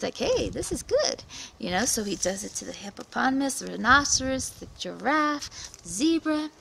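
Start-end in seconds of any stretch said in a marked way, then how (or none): 0.2-1.2 high, pleased gloat; gleeful spider. Acted. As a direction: relish the stolen food. Spider gloats over stolen yams.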